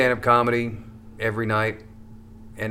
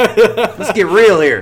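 robot voice; 10 semitones higher, 10 dB louder, much slower than usual. Pretend. Joking robot voice, slow and far.

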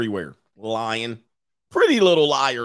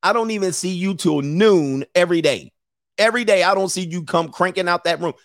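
lightly voiced scolding mom; a hint of the nagging mother; mock mom scolding; 4 semitones higher than usual. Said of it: "Mom was like".

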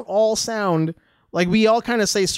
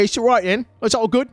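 lightly put-on Cockney; Cockney accent; 3 semitones higher than usual. Shown as a demonstration. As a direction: toss it off in a mock Cockney accent. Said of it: "that Cockney accent when I'm being".

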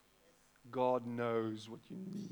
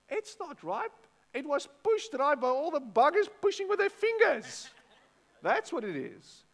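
much higher, louder comic outrage; indignant rant; 12 semitones higher, 8 dB louder than usual. Real, not acted. Preacher ranting to the congregation about fake-ripe avos, loud and high.

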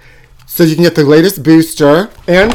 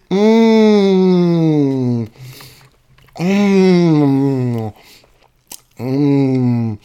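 mock savoring moans; much slower than usual. Eating fish dipped in ranch.

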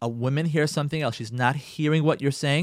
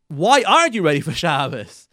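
louder, blaming "Why aren't you ready"; accusing question; 7 dB louder than usual. Retold or imitated. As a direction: make it an accusation, not a question. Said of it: "what you're hearing from him is like".

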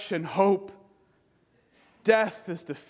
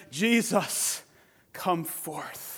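a soft, falling call, much quieter; hushed command; 3 semitones lower, 5 dB quieter, slower than usual. Retold or imitated. Preacher voicing God's Spirit, calling quietly. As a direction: call him out in a near hush. Spirit of God calls Jesus.

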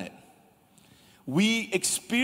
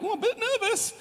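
nervous laugh. Retold or imitated. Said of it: "but you're like".

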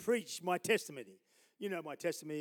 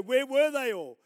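surprised question; 7 semitones higher, 11 dB louder than usual. Pretend. Imagined listener asking.

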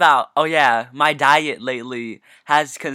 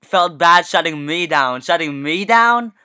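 slow, louder disbelief; incredulous; 3 semitones higher, 5 dB louder, slower than usual. Real, not acted. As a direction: spell out your disbelief slowly. Incredulous retelling.

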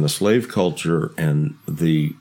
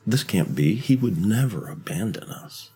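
hushed dog's thoughts; 3 semitones higher, 5 dB quieter than usual. Pretend. Imagining the dogs' thoughts.

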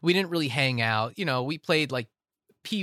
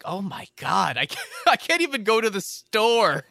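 higher-pitched, laughing self-mockery; laughing mock dismay; 6 semitones higher than usual. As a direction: wail it in jest through laughter. Mock self-doubt against Rusty's confidence.

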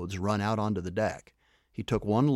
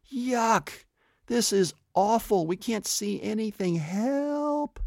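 much higher, panicked yells; yelling; 13 semitones higher, slower than usual. A narrator's reading. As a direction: scream for help, high and desperate. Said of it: "all four kids yell".

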